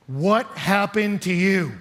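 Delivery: slow, drawn-out astonishment; retold shock. Couple seeing the bloodied hiker, slowly and shocked. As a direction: stretch each word in stunned disbelief. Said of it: "they could not hide their shock".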